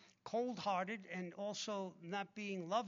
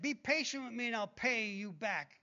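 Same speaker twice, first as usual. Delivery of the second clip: mocking pleading quote; 2 semitones higher, 6 dB louder than usual. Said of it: "Give me a break".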